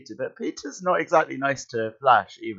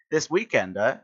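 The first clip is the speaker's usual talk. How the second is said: put-on Texan accent; 3 semitones higher than usual. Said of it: "Why has he got a Texan accent?".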